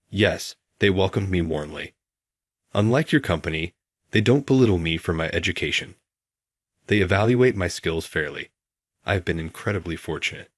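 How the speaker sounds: lightly sarcastic, mock grateful; a dry touch of sarcasm; hint of sarcasm. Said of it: "I said it with a hint of sarcasm".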